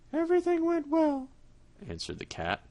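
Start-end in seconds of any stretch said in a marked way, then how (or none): 0.1-1.3 high cat voice, smug; the cat brushing it off; sly cat. Acted. Cat answers.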